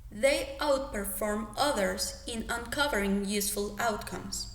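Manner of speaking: careful, deliberate reading of the practice paragraph; teacher reading a drill paragraph aloud. Shown as a demonstration. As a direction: read it out clearly like a model for students. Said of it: "give you a paragraph".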